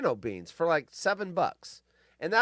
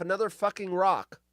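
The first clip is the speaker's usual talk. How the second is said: normal talking voice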